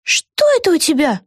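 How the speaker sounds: high, demanding; snatch and ask; high, urgent; sharp girl. A narrator's reading. Vega grabs.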